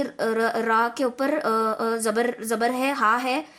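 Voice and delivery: halting and slow, restarting syllables in a muddle; slow, tangled false starts and repeats; flustered stumbling. Shown as a demonstration. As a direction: stumble through it like a nervous student. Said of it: "गड़बड़ गड़बड़ की ना".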